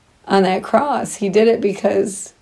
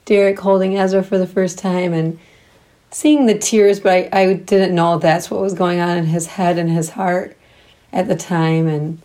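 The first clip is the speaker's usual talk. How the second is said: shaky crying voice. Real, not acted. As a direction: voice shaking with held-back tears. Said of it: "I'm kinda crying right now".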